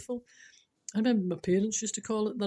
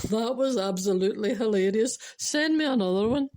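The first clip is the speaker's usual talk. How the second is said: louder, drawn-up finish on the request; boss's delighted reply; 2 semitones higher, 4 dB louder than usual. Acted. Boss texting John back for more jokes, delighted. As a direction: enthusiastic boss praising a joke.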